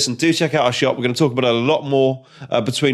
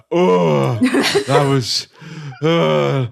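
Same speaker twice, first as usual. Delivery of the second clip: podcast voice; much slower than usual. Retold or imitated. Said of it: "her not podcast voice".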